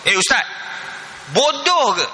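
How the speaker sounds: lightly acted outrage, pitch jumping up on "bodoh"; mock angry retort. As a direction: imitate an indignant husband talking back. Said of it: "Oh, dia marah, dia marah".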